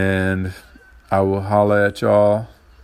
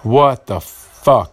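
real upset; 2 semitones higher, 4 dB louder, much slower than usual. Real, not acted. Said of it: "Okay, I'm getting upset".

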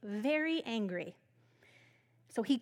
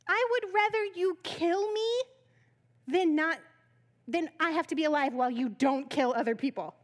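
higher, louder petulant outburst; mock angry rant; 3 semitones higher, 4 dB louder than usual. Jonah pouting at God, mock angry. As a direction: whine the complaint at God. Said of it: "saying that really mad".

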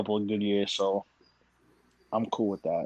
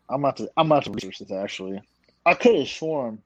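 chewing noisily. Real, not acted. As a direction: mouth full of grapes. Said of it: "Sorry, I'm eating grapes".

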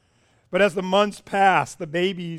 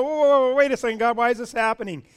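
mock surprised; 4 semitones higher, 4 dB louder, faster than usual. Mock prayer, caught off guard.

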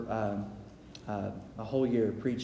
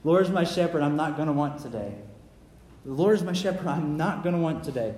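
declaration; 2 semitones higher than usual. Shown as a demonstration. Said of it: "Say that every day when you wake up".

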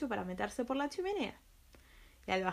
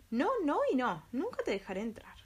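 frightened piglet voice; 5 semitones higher than usual. Acted. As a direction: squeal it out like a scared piglet. Little pig refuses the wolf.

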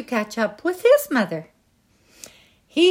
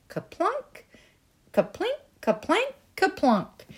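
berry plink sounds; 9 semitones higher, 4 dB quieter than usual. Acted. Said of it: "dropped them".

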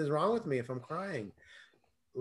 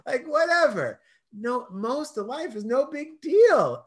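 breezy shrug of a whatever, higher and louder; dismissive whatever; 6 semitones higher, 6 dB louder than usual. Pretend. Brushing off a slurred word, airy dismissive. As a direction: toss it off like it doesn't matter.

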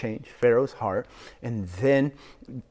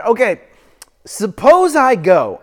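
Moses, hesitant; 11 semitones higher, 14 dB louder than usual. Retold or imitated. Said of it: "Moses says to God".

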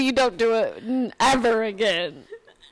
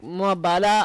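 imitated Benihana chef accent; 5 semitones lower than usual.

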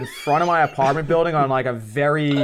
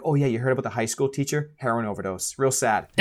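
hushed gossip; 4 semitones lower, 5 dB quieter than usual. Retold or imitated. Gossiping teachers low voice.

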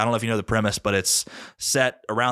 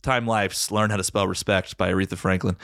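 home shopping host. Pretend. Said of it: "those deals sound like a bop".

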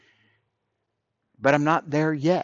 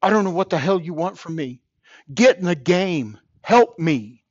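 higher, louder and faster desperate outburst; a mild mock yell up at the sky; angry plea to God; 4 semitones higher, 4 dB louder than usual. Man recalling yelling at God in his car, angry and desperate. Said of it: "scream at God and say".

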